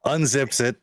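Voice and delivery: measured narration with suspenseful pauses; game master's scene setting. Acted. Game master revealing the Phoenix's weapon to players, measured and suspenseful. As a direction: dole it out phrase by phrase.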